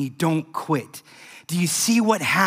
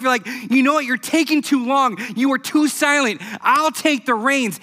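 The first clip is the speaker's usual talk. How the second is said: a believer grumbling that God is silent; frustrated believer; 4 semitones higher than usual. Retold or imitated. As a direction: vent impatience at God. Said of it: "You might say".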